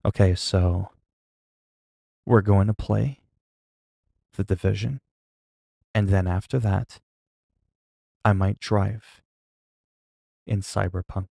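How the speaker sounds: mock half-asleep drone. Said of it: "refer to me as if I'm talking like this".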